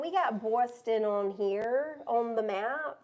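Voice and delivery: slow, hammed-up Boston accent. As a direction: drawl it in a bad Boston accent. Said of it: "my awful Boston accent".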